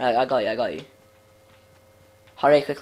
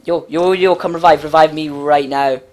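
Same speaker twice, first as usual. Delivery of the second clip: urgent call; 6 dB louder than usual. Real, not acted. Downed, begging for revive.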